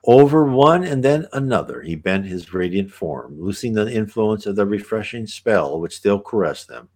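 put-on measured reading of an old visionary text; unhurried scripture-like reading; reading aloud. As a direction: read it as a solemn, flowing passage. Reads passage aloud.

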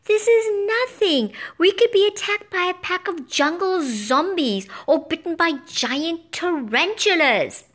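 gloating bird. A narrator's reading. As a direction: savour the scary threats. Bird taunting with horrors.

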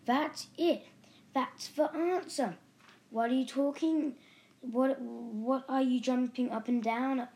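high, loud eureka outburst; sudden shout. A narrator's reading. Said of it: "he suddenly shouted".

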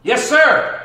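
loud, high emphatic yes sir; emphatic shout of agreement. Shown as a demonstration. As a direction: belt it out like a firm yes.

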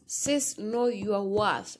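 slow, deliberate know your worth; slow emphatic know your worth. Real, not acted. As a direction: stress each word slowly. Emphatic advice to sister.

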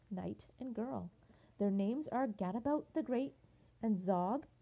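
lively rhyming read-aloud; bouncy read-aloud for children; storybook reading. A narrator's reading. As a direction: read it like a bedtime picture book. Reads picture book aloud.

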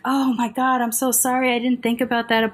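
high-pitched gushing apology, imitated; mock apology. White lady apologizing after being corrected, mock flustered. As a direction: act out her flustered sorry.

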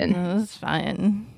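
put-on slow drawn Valley girl drawl. Joking about teen slang, she slips into Valley girl. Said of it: "talk like a Valley girl".

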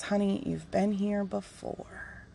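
soft, slow fatherly reassurance; gentle. Retold or imitated. Dad consoling the crying speaker, gentle. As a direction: soothe tenderly, barely raising the voice. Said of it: "gently told me".

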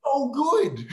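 high, hammed-up sarcastic delight; mock cheer at a hostile crowd; Burr's sarcasm. Comic imitates Bill Burr mocking the crowd, high sarcasm. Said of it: "he goes".

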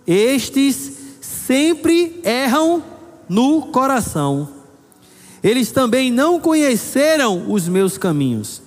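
slow, high, indignant declaration; a touch of divine indignation; indignant God's voice. Acted. Preacher voicing God's indignation at a generation. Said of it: "me indignei contra essa geração e disse".

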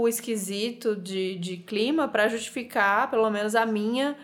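sick, nasal and hoarse; talking through a blocked nose. Real, not acted. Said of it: "falando pelo nariz".

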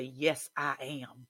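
slow, steady yes I am; deliberate affirmation; slow firm declaration. Shown as a demonstration. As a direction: plant each word slowly. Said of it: "you have to yell back".

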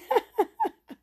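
a high, bright burst of laughter. Real, not acted. Woman laughing at her own disbelief, high burst of laughter. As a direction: laugh at how crazy it sounded.

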